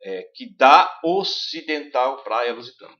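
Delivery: dá stressed and stretched, ocidental joined, slow; forced dá. Shown as a demonstration. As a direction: lean hard on dá and glide into ocidental. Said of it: "se força um pouquinho mais". (acento forte em dá, devagar)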